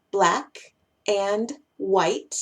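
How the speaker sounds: "black ... and ... white" slowly, word by word; unconnected words. Shown as a demonstration. Teacher giving an example, slow separate words. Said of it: "Va a sonar cuando los conectamos".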